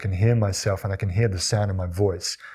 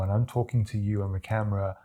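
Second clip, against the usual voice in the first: too quiet; 3 semitones lower, 5 dB quieter, faster than usual. Shown as a demonstration. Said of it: "if somebody is hearing me now".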